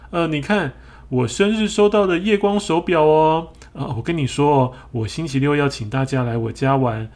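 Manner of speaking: high, showy bragging hen; insincere apology. Acted. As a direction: show off loudly in a high voice. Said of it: "没诚意的道歉".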